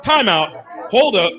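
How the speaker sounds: high, laughing disbelief; laughing mock shock at hearing Welsh; retold amazement. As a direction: act stunned and delighted. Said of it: "and I was like".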